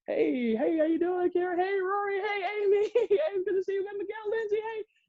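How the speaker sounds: high excited greetings in a rush; hammed-up high hellos; eager glad-hander. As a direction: greet everyone like a politician working the room. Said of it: "start shaking hands like".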